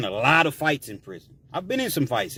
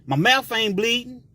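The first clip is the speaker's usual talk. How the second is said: higher, cocky prison taunt; mocking taunt; 5 semitones higher than usual. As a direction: egg him on, daring him. Black taunting in prison lingo.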